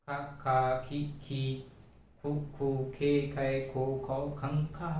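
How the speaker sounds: chanted barakhadi recital, each syllable twice; sing-song through the ka row, syllable by syllable; reciting the syllable chart. Shown as a demonstration. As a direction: classroom recitation of का की कु के. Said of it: "बारह खड़ी पढ़ते हैं".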